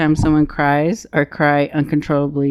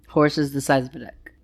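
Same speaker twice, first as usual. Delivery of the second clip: whispering; 3 semitones lower, 6 dB quieter than usual. Acted. Whispered punchline of the question.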